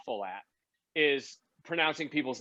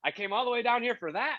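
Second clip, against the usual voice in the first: indignant complaint; 10 semitones higher than usual. Retold or imitated. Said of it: "He goes".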